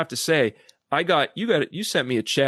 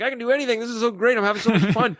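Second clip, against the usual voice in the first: much higher, bubbly and excited; bouncy Tigger; 10 semitones higher, faster than usual. Acted. The speaker as Tigger to podcast host, gleeful high voice. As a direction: bounce around like an overjoyed tiger. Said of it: "it's Eeyore and, versus Tigger".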